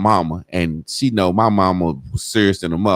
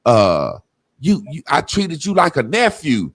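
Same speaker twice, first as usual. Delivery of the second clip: crying aunt; 4 semitones higher than usual. Retold or imitated. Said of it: "And she cried".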